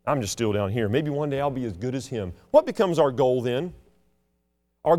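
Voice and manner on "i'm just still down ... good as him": low, hushed admiring voice, lower; awed churchgoer. Retold or imitated. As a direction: mimic a self-doubting believer in awe. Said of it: "you think".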